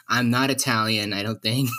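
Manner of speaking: ordinary delivery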